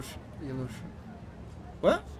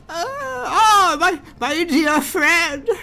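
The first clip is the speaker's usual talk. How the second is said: laughing greeting; 11 semitones higher, 9 dB louder, slower than usual. Acted. Voicing an overjoyed greeting.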